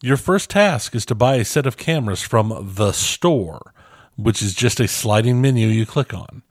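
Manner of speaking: measured read-aloud delivery; reading a review aloud. Real, not acted. Podcast host reads a listener's game review, read-aloud delivery. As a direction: read it out evenly from the page.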